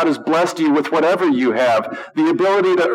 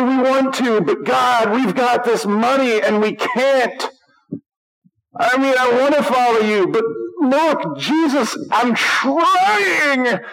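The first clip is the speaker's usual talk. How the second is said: mock whiny pleading; 6 semitones higher, slower than usual. Wealthy believer excuses himself to Jesus.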